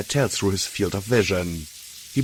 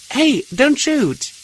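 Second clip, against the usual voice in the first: much higher, louder and slow, hands-up call; 6 dB louder, slower than usual. A narrator's reading. Blackjack calls to gunmen behind sandbags, slow loud plea. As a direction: call it out across the lot, slow and high. Calling out to armed guards.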